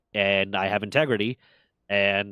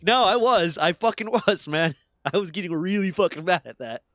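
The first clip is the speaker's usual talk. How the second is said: emphatic insistence; 6 semitones higher, 4 dB louder than usual. Retold or imitated. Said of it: "It's like".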